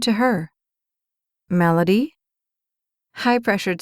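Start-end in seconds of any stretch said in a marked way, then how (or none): 1.5-2.1 surprised. Acted. Surprised recognition.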